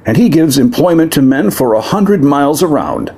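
a lightly voiced proud demon prince, aggrieved. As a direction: speak as a wronged demon noble to the crowd.

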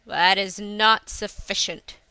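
put-on slow, loud old seer's verdict; lightly voiced stern old soothsayer; fortune teller. Fortune-teller answers the mother.

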